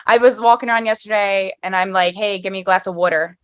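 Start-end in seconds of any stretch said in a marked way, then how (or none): 2.1-3.4 casual Philly pronunciation of "water"; Philly accent. Shown as a demonstration. Philly girl shows guest the accent, casual Philly vowels. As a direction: ask like a Philly local, "water" as "wooder". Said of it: "I'm a Philly girl, so it's like".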